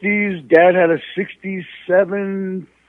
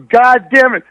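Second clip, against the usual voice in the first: muffled curse, imitated; 6 semitones higher, 7 dB louder than usual. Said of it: "I hear the stuff".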